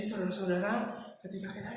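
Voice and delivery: low, soft, barely audible address; under-projected speech opener; too quiet. Shown as a demonstration. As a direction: say it too weakly to carry. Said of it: "ini nggak kedengeran, ya, sama orang lain".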